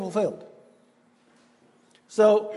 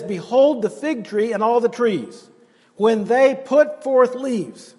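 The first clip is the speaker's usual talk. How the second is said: solemn scripture reading; 2 semitones higher, slower than usual. Acted.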